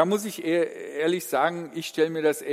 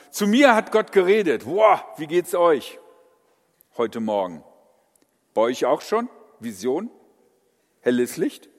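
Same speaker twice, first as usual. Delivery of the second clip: show-off boasting; 5 dB louder than usual. Retold or imitated. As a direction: brag like a big shot. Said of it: "einen auf dicke Hose zu machen".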